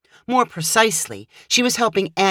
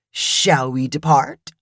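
the speaker's voice; 3 semitones lower, slower than usual. Acted. The speaker's affected formal question.

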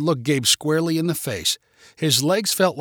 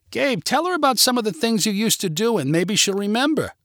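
high, insistent prodding; urging; 7 semitones higher than usual. A narrator's reading. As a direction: urge him on in a raised pitch. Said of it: "urged Natalie".

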